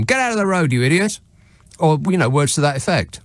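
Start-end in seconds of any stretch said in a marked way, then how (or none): 0.0-1.2 raised, higher-pitched mock shout at a drunk; retold yell at a man lying in the road. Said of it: "I yelled at him".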